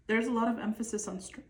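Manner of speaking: talking through hiccups; interrupted by a hiccup. Real, not acted. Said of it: "I have the hiccups".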